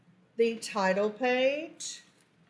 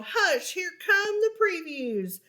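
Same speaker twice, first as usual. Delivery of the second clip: shushing lovebirds; 9 semitones higher than usual. Acted. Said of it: "The lovebirds called".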